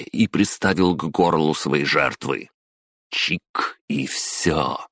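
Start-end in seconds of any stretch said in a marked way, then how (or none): 3.1-4.9 a hushed, grinning threat; sinister smile. Acted. Intern holding a knife to the boss's throat, sinister and hushed. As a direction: purr the threat with a cruel smile. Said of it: "зловеще улыбнулся я".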